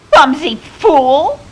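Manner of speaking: high, loud, drawn-out screechy woman's cry; shrill and screechy. A narrator's reading. Woman bumped on the foggy beach, shrill and screechy. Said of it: "It was shrill and screechy".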